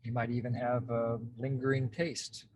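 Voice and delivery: calm, unhurried guidance with long pauses; guided meditation. Real, not acted. Host guides group into present experience, calm meditation voice. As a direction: lead them gently into noticing, leaving space between phrases. Leads a self-connection exercise.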